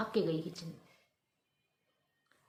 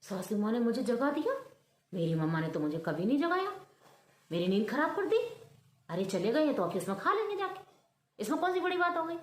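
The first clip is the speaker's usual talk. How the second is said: louder, petulant complaint; a sulky young bride grumbling; mildly voiced angry grumble; annoyed; 3 semitones higher, 3 dB louder, faster than usual. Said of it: "उसे तो बड़ा गुस्सा आया".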